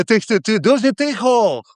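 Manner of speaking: high, slowing mock holler; mock scolding yell. Resident hushing noisy neighbours in Ukrainian, mock yell. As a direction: imitate hushing the street from a window.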